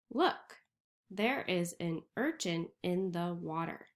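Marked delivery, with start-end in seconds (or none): 0.1-0.6 high, loud look; excited look. Acted. Teacher showing the class the next picture, excited. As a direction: call their attention brightly. Pointing at each page's reveal.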